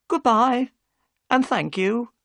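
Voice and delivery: high, thankful wife at the door; Mrs Smith's goodbye. Acted.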